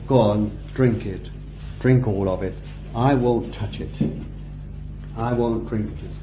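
soft, tender offering of the cup; gentle Jesus. Retold or imitated. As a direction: hand it over quietly, like a friend. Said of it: "given you this bread and said".

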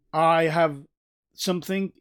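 stressed "I" with a break after "have"; emphatic I. Shown as a demonstration. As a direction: punch "I" to separate yourself from others. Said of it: "in order to distinguish and separate me".

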